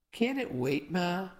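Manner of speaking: a touch of disbelief, lifting on Ma; mildly incredulous question; understated surprise, pleading a little. Acted. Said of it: "Mom asked in disbelief".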